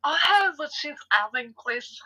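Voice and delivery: put-on terrible French accent; bad French accent ordering. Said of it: "Terrible French accent".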